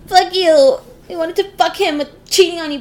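hammed-up shrill girl throwing a fit; mocking Laura. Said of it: "and Laura was like".

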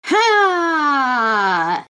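loud high countdown yell; battle shout. Acted. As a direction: shout it out like a hero. Morph call countdown.

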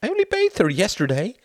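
high, loud scandalized cry; delighted horror. A narrator's reading. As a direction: protest loudly, half thrilled, half appalled. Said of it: "cried Wendy in a mixture of delight and horror".

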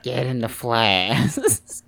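slow whispered aside. Real, not acted. Cohost whispering a closing joke, slow whisper. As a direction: hush it out slowly.

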